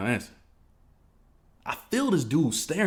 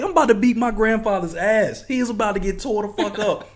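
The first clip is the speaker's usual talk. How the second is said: mock furious rant; 11 semitones higher, 7 dB louder than usual. Threatening an old neighbor, loud high furious rant. Retold to mom, still heated.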